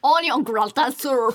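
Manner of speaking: オニオングラタンスープ said with English-like sounds and a falling tune; English-style pronunciation. Shown as a demonstration. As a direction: say オニオングラタンスープ like a native English speaker. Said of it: "もうちょっと英語っぽく言ってみて".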